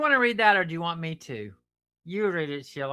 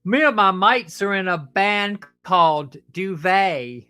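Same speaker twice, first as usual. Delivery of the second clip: slow, loud put-on British accent; 7 dB louder than usual. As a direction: deliver the punchline like a Brit. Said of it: "I gotta have a British accent for this one".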